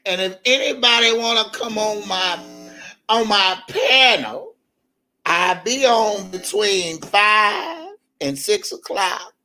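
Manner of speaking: mock slow host. Mimicking DJ Tyson's slow live talk.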